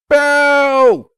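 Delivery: loud jeering boo. A narrator's reading. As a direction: howl it in disapproval. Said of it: "Applejack howled in disapproval".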